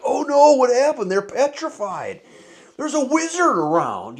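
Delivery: high, loud, hammed-up alarm; cartoonish fright, slowing down as the panic sets in; mock panicked gnome. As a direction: play a tiny gnome panicking over a fallen friend.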